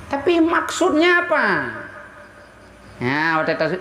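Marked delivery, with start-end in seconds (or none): 0.1-1.4 pointed question. Real, not acted. Preacher's pointed high question.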